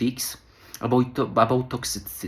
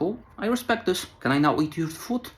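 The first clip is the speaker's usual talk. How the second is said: imitated sweet politeness, higher voice; gentle and smiling; 6 semitones higher than usual. French travellers politely asking the prostitute for food, gentle and smiling. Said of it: "they're very gentle and smiling".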